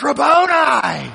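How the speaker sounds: slow, ringing cry of "Rabboni."; joyful recognition. Retold or imitated. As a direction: burst out in sudden recognition. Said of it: "and she goes".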